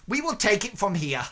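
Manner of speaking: brisk merchant taking charge. Acted. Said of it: "This merchant looks at you and says".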